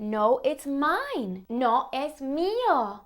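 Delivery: put-on slow, whiny kid voice insisting; childish whine. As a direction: whine like a kid refusing to share. Child toy quarrel acted out.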